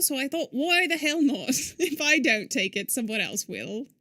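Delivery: put-on amateur British accent, reading game dialogue; imitation British storytelling voice. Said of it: "My British accent needs".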